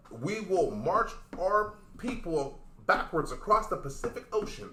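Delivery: slow, weighty, solemn declaration; dramatic delivery. Shown as a demonstration. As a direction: deliver it slow like a grave threat. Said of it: "Deliver it again".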